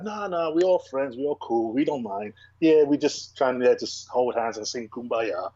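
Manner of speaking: drawn-out, sarcastic reassurance; mock friendliness. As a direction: play the falsely chummy interviewee, stretching the words. Mimics polite interview answers, then rejects them.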